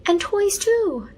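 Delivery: high, slow, eager exclaim; high and drawn out with glee. A narrator's reading. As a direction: jump in with delight. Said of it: "Hafsa exclaimed".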